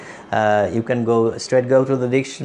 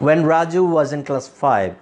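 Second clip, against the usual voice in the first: slow phrasing; 2 semitones higher, much slower than usual. Shown as a demonstration. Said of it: "এখানে".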